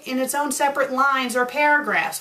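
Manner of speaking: normal talking voice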